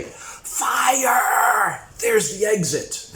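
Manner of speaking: high, loud panic yell of a crowd; panicked shout. Retold or imitated. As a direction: cry out the alarm in fright. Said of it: "They say".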